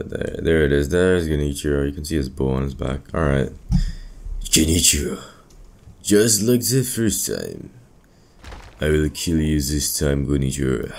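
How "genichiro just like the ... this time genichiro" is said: put-on slow, dramatic Japanese accent; lightly voiced samurai challenge. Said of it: "My best Japanese accent impression".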